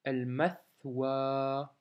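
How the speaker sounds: el mathwa with a long A, read slowly; slow careful reading. Shown as a demonstration. Teacher modelling the long A, slowly. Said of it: "c'est un A long".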